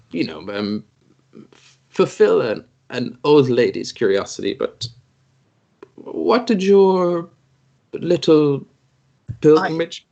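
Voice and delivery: put-on curious old lady, slow and drawn out; a hint of a sly old crone asking; lightly voiced old snake lady. Old priestess Cobra prying into the hero's pilgrimage.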